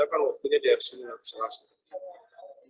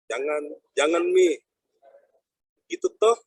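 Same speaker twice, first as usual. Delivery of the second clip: Kendari dialect with particles "mi" and "toh"; Kendari accent; 3 semitones higher than usual. Shown as a demonstration. Lecturer shows students how Kendari people talk, Kendari accent. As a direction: demonstrate Kendari speech on "jangan mi". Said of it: "Itu logat Kendari ya".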